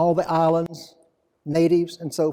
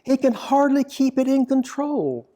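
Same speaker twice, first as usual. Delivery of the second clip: poem reading. Acted. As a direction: draw out the phrases, pausing between images. Reads own poem aloud.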